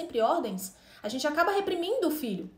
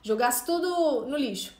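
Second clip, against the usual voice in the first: desespero imitado. Retold or imitated. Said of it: "dá um desespero".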